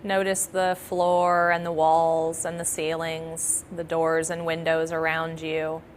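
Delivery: calm, measured meditation guidance; guided meditation. Acted. Yoga nidra teacher settling listeners into practice, calm guided meditation. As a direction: talk them gently into relaxation, leaving long pauses.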